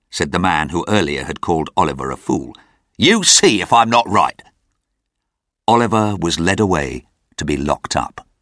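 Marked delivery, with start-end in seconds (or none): 3.0-4.4 smug gentleman. A narrator's reading. Man predicts grim fate.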